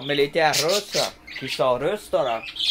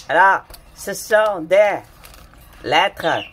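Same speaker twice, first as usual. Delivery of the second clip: mock dramatic; 6 dB louder, slower than usual. Dramatic reveal of Russian letters.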